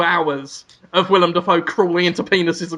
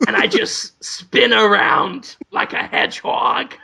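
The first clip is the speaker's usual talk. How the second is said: Willem Dafoe. Acted. Proud doctor describes crawling through the patient, Willem Dafoe impression. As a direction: savor each gross detail with long pauses. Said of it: "And he's like".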